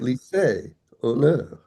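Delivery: Lycée and honneur said in French, stress on the last syllable; French words, final stress. Shown as a demonstration. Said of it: "How do French words go".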